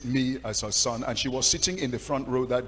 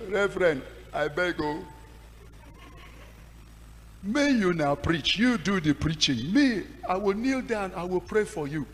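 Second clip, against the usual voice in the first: anxious pleading; 5 semitones higher, 5 dB louder than usual. Retold or imitated. Pleading with the senior pastor.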